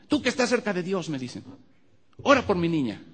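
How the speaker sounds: high, loud desperate plea; pleading. Retold or imitated. Relatives begging the preacher to pray for the girl, high and loud. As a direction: beg for help for the child.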